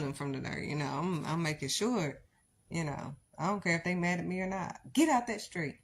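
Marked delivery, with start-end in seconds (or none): 4.9-5.8 put-on loud, raised shout at the kid; urgent command. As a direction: bark it to save them from the car. Parent warning child in street.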